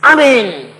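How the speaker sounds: sudden high, loud cry; loud drawn-out mock shout; shouted interjection. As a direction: imitate an eager congregant yelling out. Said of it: "Langsung dia teriak".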